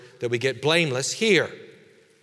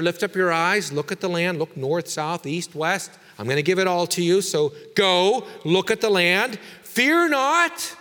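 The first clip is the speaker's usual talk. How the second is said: louder, higher proclaiming God's words; voicing God; 4 semitones higher, 4 dB louder than usual. Preacher voicing God's promise to Abram, rising and proclaiming. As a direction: call it out as God promising the land.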